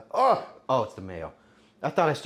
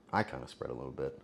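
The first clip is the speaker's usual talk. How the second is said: muttered joke; 12 semitones lower, 11 dB quieter, faster than usual. Real, not acted. Self-deprecating joke echoing previous line.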